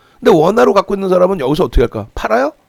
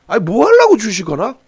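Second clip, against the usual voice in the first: incredulous challenge; 3 semitones higher than usual. Real, not acted. Lecturer challenges traders rhetorically.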